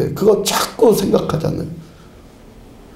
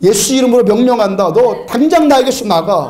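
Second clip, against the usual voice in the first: firm demo command, mildly raised; mock angry command; 3 semitones higher than usual. Shown as a demonstration. Preacher commanding a demon to leave, demonstrating a mild mock fury. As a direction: order it out like you mean it. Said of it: "이렇게 화를 팍 내니까요".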